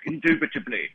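lightly voiced Oxford don; a hint of mock English professor; stuffy Oxford professor. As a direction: toss it off as a caricature English academic. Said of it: "like, Professor Oxford in a tweed jacket".

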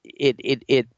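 talking through a held sneeze; fighting off a sneeze; holding back a sneeze. Real, not acted. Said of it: "I'm gonna try not to sneeze here".

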